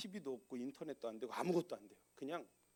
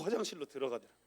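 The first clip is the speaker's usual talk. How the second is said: ordinary talk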